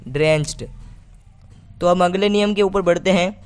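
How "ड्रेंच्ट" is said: ड्रेंच्ड with a T ending; final D as T. Shown as a demonstration. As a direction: teach ड्रेंच्ड as "drencht". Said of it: "डी को हम ट पढ़ेंगे". (ड्रेंच्ड के अंत में ट की ध्वनि)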